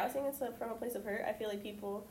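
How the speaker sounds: normal talking voice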